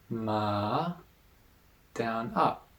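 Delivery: "ma" dipping down then up; third tone ma. Shown as a demonstration. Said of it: "then the third tone".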